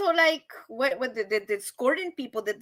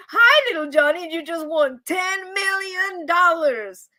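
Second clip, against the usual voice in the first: Ed McMahon; 4 semitones higher than usual. Acted. Prize presenter at the door telling Johnny he won, announcer-style. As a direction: announce a jackpot, higher and stretched out. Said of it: "if Ed McMahon came and knocked on your door".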